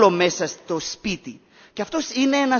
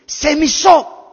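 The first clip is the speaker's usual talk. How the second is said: higher, louder cry of I hate you; child's angry outburst; 7 semitones higher, 7 dB louder, much slower than usual. Retold or imitated. Boy leaving the pool turns on his mother, shouting. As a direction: hurl it at her like a furious child. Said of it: "λέει στην μάνα του".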